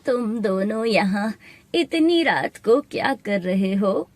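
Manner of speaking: slow, lightly voiced old woman. Old woman finding two children at night, lightly aged voice. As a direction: question lightly like an elderly stranger. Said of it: "एक बूढ़ी औरत आती है".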